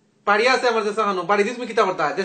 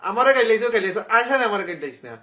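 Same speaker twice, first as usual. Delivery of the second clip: laughing protest. Real, not acted. Caller laughs while being cursed.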